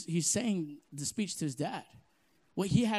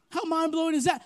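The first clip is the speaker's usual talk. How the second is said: higher and louder on that; raised repeat; 8 semitones higher, 4 dB louder than usual. Shown as a demonstration. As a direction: repeat it with rising force.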